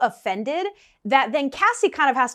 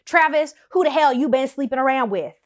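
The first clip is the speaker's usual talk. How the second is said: loud, accusing yell at Travis; wife bursting in to confront her fiance, loud and angry; dramatic angry confrontation; 4 semitones higher, 6 dB louder than usual. Retold or imitated. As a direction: storm in and demand an answer. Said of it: "She probably didn't say it like that, but something very dramatic".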